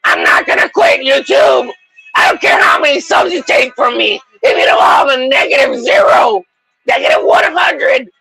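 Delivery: high, shouted vow to never quit; hammed-up defiant yelling. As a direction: yell it at YouTube like a battle cry. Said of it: "and you say".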